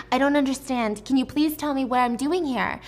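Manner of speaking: begging for answers. Acted. Woman being dragged away begs guards for answers, mildly pleading. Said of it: "she's begging them for answers".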